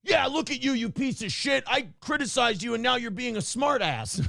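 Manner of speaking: hammed-up sneer at a smart ass; imitating angry critic. Commenter sneering at the host, mock angry. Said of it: "their response when you write that is always".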